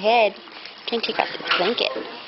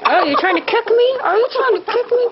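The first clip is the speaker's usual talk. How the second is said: mock-shocked coo, higher; 12 semitones higher, 4 dB louder than usual. Real, not acted. Mom playing with baby.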